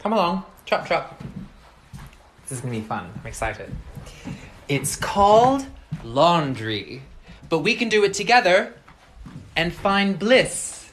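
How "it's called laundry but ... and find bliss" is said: slow, dreamy pitch for laundry; dreamy sales pitch. Acted. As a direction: sell it like pure bliss. Selling chores dreamily.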